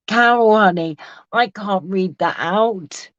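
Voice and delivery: high-pitched, helplessly amused protest, breaking into laughs; real cracked-up disbelief, pitch jumping up; crying with laughter. Real, not acted. Host to Carol over a comment she can't read out, cracked up. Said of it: "I'm gonna start crying with laughter".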